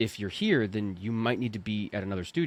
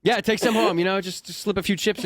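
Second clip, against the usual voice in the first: much higher and louder, teasing; high teasing repeat; high playful echo; 8 semitones higher, 3 dB louder than usual. Real, not acted. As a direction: toss the joke back brightly.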